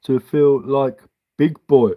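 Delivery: put-on slow, childlike read of his words; slow mocking quote. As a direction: read it out like a kid's card. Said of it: "my five-year-old writes me".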